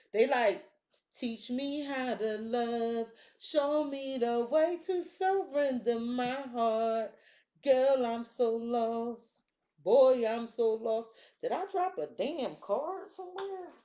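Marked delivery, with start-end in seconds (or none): 1.1-11.1 slow, drawn-out mock plea; hammed-up lovesick begging, slowly; mock pleading lover. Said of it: "I don't know why I'm talking like that".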